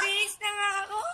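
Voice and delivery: high, loud wail through tears; crying shout. Real, not acted. Child protesting to parent, crying shout. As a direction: yell it while sobbing.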